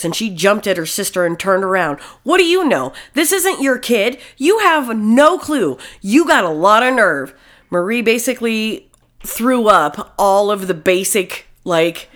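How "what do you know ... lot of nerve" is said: sharp, high angry outburst. Acted. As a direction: lash out at her sister. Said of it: "Marie was angry at this".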